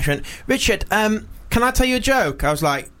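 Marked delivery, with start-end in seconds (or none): 0.5-2.4 lightly imitated little girl, higher pitched; four-year-old girl. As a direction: imitate a small child announcing a joke. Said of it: "she's about four or something".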